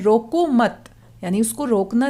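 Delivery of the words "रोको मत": "रोको मत" run together as one command; "रोको मत" as a closed group; pause after मत. Shown as a demonstration. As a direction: join "मत" tightly to "रोको", then stop. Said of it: "दूसरे वाक्य को अगर हम पढ़ते हैं".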